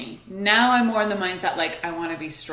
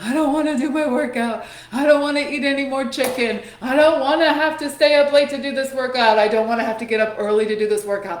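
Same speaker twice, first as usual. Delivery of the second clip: higher, louder, mock-whining list of gripes; a hammed-up whine about workouts; whiny complaining; 4 semitones higher, 4 dB louder, faster than usual. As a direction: complain like a fed-up kid. Retold daily complaining to herself.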